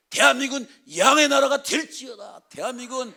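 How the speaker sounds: high, loud declaring like a pulpit decree; booming prophetic declaration; preached proclamation. Shown as a demonstration. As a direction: proclaim it over the nation at full force. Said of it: "막 그러면서 하는 거죠".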